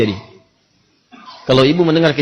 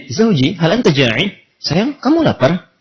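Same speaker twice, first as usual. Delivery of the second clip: pertanyaan polos istri, pelan; tanya dengan lugu dan perlahan; polos bertanya; slower than usual. Acted. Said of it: "polos kayak nanya". (istri bertanya polos dan pelan kepada suami)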